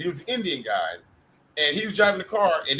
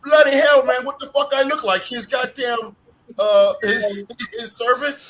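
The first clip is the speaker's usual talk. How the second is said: high, loud imitation of an outraged friend; indignant mock anger; 8 semitones higher, 6 dB louder than usual. Retelling a friend mistaken for a servant, indignant mock rant. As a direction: blow up in retold outrage. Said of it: "he was really mad at the guards".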